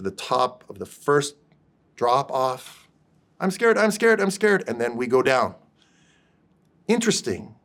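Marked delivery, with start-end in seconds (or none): 3.4-4.6 higher, louder frightened cry; panicky child. Retold or imitated. Son at the top of the roller coaster drop, high panicked cry. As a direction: imitate a kid panicking at the drop.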